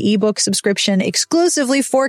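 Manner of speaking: scripted podcast ad read; polished, lively book-blurb narration. Acted. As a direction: read the book promo smoothly and chattily.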